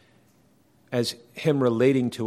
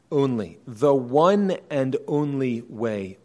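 "only" drawn out with emphasis; stress on only; slower than usual. Real, not acted. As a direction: stress "one and only" firmly, giving each word weight. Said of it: "and I'm emphasizing".

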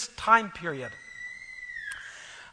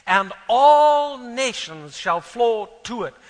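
Scripture reading; 4 dB louder than usual. Real, not acted. Preacher reads Isaiah's prophecy to the congregation, emphatic and deliberate. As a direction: read it out grandly, swelling on the big phrases.

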